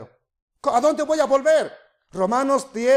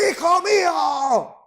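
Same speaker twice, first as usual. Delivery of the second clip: mother yelling at her son; mother's shout; 5 semitones higher, slower than usual. Retold or imitated. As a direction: call a child back sharply. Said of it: "Más recio me grita".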